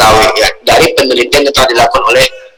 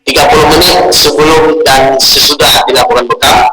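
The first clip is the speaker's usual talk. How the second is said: glitchy call audio dropping words; choppy broken audio. Real, not acted. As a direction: voice cutting in and out on a bad line. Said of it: "Suara putus-putus".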